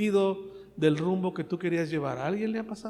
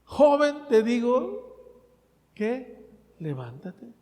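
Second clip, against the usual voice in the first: loud, high "Joven"; Jesus calling out loud; commanding call; 3 semitones higher, 4 dB louder, slower than usual. Acted. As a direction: call the dead youth firmly. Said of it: "dijo Jesús".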